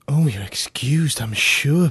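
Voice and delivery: breathy flirtatious whisper, slow; flirty whisper. A narrator's reading. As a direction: whisper it coyly, flustered.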